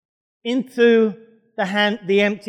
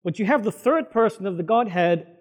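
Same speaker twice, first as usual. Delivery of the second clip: normal talking voice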